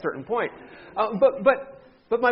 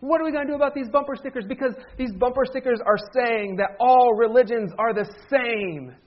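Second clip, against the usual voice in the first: quick, raised imitation of an upset friend; mock irate friend; 5 semitones higher than usual. Pastor mimics his irate friend about bumper stickers. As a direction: rattle it off the way the worked-up friend did. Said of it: "he is irate".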